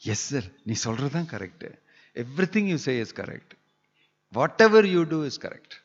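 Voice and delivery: fawning over the boss, lightly voiced; yes man. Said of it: "groups of yes men".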